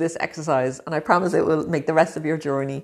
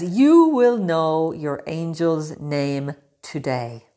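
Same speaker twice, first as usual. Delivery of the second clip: slow reading; 3 semitones lower, much slower than usual. Acted. Reads affirmation slowly from book.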